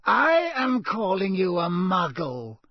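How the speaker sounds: high, slow, cool disdain. A narrator's reading. Villain answering the intruder's challenge, coolly. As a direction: spell it out slowly, high and cold. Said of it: "said the voice coolly".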